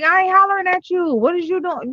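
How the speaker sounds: high-pitched mock scolding; retold irritated parent. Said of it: "hollering at him".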